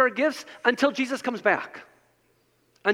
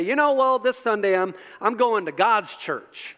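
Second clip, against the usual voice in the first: Southern twang. Retold or imitated. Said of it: "they say it in that twang".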